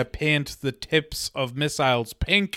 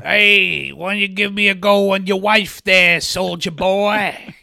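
leering redneck taunt; 3 semitones higher, 3 dB louder than usual. Retold or imitated. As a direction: taunt him like a bar thug. Acting the bar jerks taunting.

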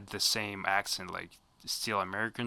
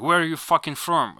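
put-on rude teen gamer; 6 semitones higher, 10 dB louder than usual. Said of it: "They just hear your accent".

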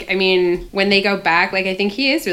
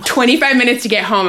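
lightly acted stern dad, higher and louder; stern father; 6 semitones higher, 4 dB louder than usual. Dad orders his daughter home, lightly acted stern father. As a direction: give it as a hint of a dad's order. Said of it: "her dad is like".

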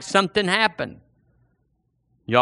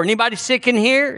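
higher, brisk call through the door; calling into a house; 7 semitones higher, faster than usual. Pretend. Preacher at a neighbor's door, calling out. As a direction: sing out the question at the doorway.

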